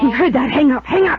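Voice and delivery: panicked. Acted. Panicked order to hang phone.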